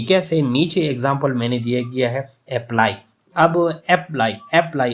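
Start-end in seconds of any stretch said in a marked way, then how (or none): 2.5-2.9 अप्लाई with a light first syllable, weight on प्लाई; stress on second syllable. Shown as a demonstration. Teacher giving an example of unstress, second syllable of अप्लाई stressed. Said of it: "ए पे इतना ज़्यादा जोर नहीं दिया गया". 3.9-4.9 light opening अ, stronger प्लाई in अप्लाई; stress on second syllable. Shown as a demonstration. Teacher contrasting it with apple, second syllable of अप्लाई stressed. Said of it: "ए पे इतना ज़्यादा जोर नहीं दिया गया".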